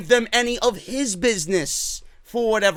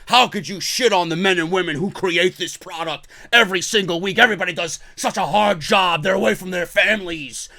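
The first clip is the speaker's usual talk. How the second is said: lower-pitched mimicking of offended defenders; mock reproach; 4 semitones lower than usual. Company defender scolding critics over hard-working staff, mock reproach. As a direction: parody someone pleading for the hard workers.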